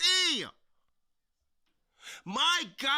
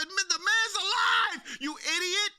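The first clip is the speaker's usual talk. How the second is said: raised, exasperated mock yell at him; 4 semitones higher, 3 dB louder than usual. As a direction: yell it in disbelief, "the man's alive". Yelling at crying champion.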